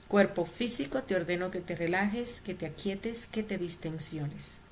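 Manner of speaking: commanding drill-sergeant voice, fading at the end; military voice. Shown as a demonstration. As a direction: give the order like a soldier. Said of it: "con voz militar tres veces".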